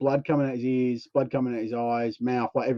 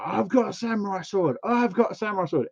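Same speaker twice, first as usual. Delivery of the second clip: mock tough guy; 6 semitones higher than usual. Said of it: "He's like".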